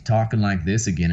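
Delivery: a touch of Southern twang; old Southern accent. Shown as a demonstration. Showing the interviewer how he used to talk, Southern accent. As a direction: slip lightly back into a Southern accent. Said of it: "old accent, uh, how I used to talk".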